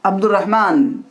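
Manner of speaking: अब्दुर्रहमान with no ल and a doubled र; model pronunciation. Shown as a demonstration. Teacher modelling the sun-letter word for students, careful model pronunciation. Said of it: "अलीफ और लाम लिखा गया".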